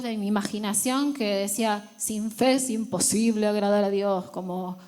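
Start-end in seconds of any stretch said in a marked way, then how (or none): 2.0-4.3 a hint of a stern, angry God; mildly reproachful divine voice. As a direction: voice it like a God losing patience. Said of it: "como un Dios enojado".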